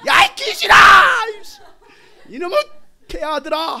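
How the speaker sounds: very high, loud outburst; cursing shout. Shown as a demonstration. Preacher demonstrating how to curse demons, furious shout. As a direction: let all the stress out on it. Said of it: "그때 여러분 다 스트레스 해소하세요".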